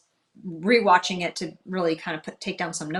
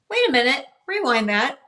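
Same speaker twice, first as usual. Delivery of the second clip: higher, louder self-quote of sudden alarm; startled reaction; 7 semitones higher, 5 dB louder than usual. Retold or imitated. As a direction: re-enact catching something odd on playback. Retells reacting to hearing the voice.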